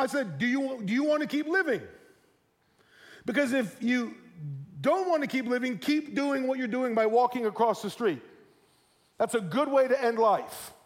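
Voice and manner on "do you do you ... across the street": firm parental warning, pitched up a little; retold stern talking-to from a parent; firm but loving. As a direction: deliver it as a serious, loving warning. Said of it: "I spoke to him firmly, but lovingly".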